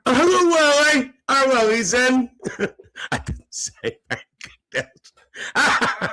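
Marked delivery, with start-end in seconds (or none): 0.0-2.3 high, loud squealed hello; excited greeting. Acted. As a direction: greet a favourite arrival at high pitch. Greeting viewer arriving in live chat.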